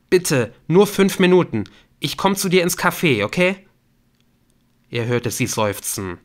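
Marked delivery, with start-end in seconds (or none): 0.1-3.7 high, loud, insistent appeal; urgent pleading. Acted. Young man begging her to meet, urgent pleading. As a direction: beg for a moment of her time. Nick begs Claire to meet.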